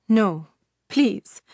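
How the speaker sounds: pleading, rising on please; begging. Acted. Father begs the witch to spare them. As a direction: beg desperately. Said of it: "Samar begged".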